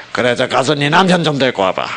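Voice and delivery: curt, blaming order to fetch the husband; condemning reading. Shown as a demonstration. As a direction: read it as a mild accusation. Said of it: "정죄의 형태로". (정죄하듯 나무라는 말투)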